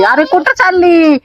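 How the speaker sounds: a mother calling her little one, high and drawn out. Real, not acted.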